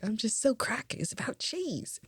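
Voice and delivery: high, softened British cartoon accent; mock British accent. Fan talking about Wallace and Gromit, mock British accent. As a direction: do a playful high-pitched British impression. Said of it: "I don't really talk in a British accent sometimes".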